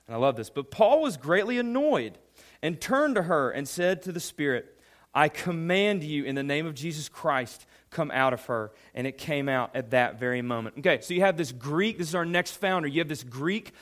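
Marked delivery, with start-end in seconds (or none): 0.5-10.8 reading the verse aloud, a bit raised; scripture reading. Acted. Pastor reads Acts to the youth, a little raised. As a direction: lift the Bible text above the talk.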